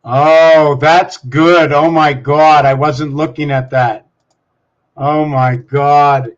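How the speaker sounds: loud, amazed reaction; impressed surprise. Real, not acted. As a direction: blurt it out, drawing out the last words. Reacting to something just seen.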